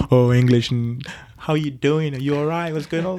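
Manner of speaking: mock educated English accent; put-on proper English. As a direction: feign polished English for the cameras. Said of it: "everyone's trying to pretend to see they're educated".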